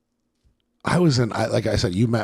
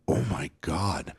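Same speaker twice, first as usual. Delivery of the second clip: slow, softly voiced retold disbelief; hushed shock; 7 dB quieter, slower than usual. Whole group reacting to the confrontation, hushed imitated shock. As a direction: imitate a stunned room, slow and soft. Stunned room reacting to the insult.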